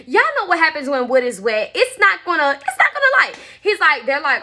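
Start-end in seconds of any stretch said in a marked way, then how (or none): 1.7-3.4 high-pitched, laughing through the words; amused disbelief. Real, not acted. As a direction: let the voice jump up with a laugh. Amused at soaking the wood.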